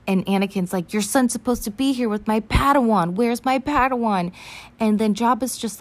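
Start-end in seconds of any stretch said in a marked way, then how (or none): 0.9-4.3 mock hot-headed insistence; raised, higher-pitched acted demand; Anakin. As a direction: argue back with playful fury. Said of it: "his hot-headed ass".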